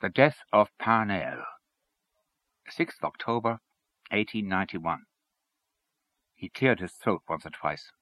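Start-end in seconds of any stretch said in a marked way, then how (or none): 0.0-5.0 slow, measured title of a poem; formal, deliberate heading; solemn announcement. A narrator's reading. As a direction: announce it gravely before reciting. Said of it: "after a long pause he announced".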